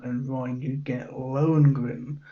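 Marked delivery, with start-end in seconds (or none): 1.1-2.2 German accent. Shown as a demonstration. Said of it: "said in my best German accent".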